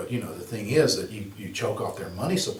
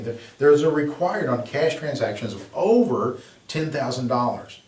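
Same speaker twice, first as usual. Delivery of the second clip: "over" said with a slight emphasis; teacher stressing "over" in "of over ten thousand dollars"; 3 semitones higher, 4 dB louder than usual. Shown as a demonstration. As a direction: lean a little on "over". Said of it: "Emphasis on the word over".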